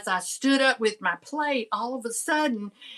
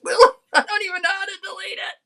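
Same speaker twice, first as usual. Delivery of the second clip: laughing; 10 semitones higher, 5 dB louder, faster than usual. Real, not acted. Embarrassed after gossiping on camera.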